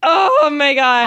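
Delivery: drawn-out mock-crying cry; re-enacted wail. Passenger relives the panic in the car, mock-crying wail. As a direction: wail it slowly, as if sobbing. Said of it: "I was literally like".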